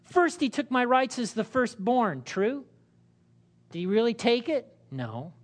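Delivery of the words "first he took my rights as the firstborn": higher, aggrieved protest; exclaimed. Acted. Esau protesting to his father, mildly aggrieved. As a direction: complain bitterly of being cheated. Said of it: "Esau exclaimed".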